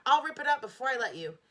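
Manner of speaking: loud angry threat; boy threatening to tear up the booklet. A narrator's reading. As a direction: threaten hotly. Jimmy threatening.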